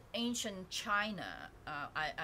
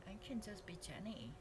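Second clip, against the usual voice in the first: Jenny; 9 dB quieter than usual. Pretend. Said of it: "I slow down a lot when I'm Jenny".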